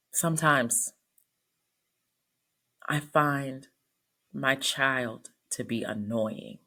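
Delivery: reluctant client, slowly dragging the words out; hesitant confession. Retold or imitated. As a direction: imitate a halting confession with long pauses. Patient's hesitant, painful confession.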